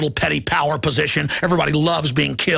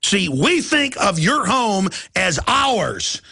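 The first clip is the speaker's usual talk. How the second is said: smug corporate voice; much slower than usual. Retold or imitated. Voicing Google's attitude.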